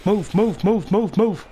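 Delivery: urgent shouting. Real, not acted. Fleeing the explosion.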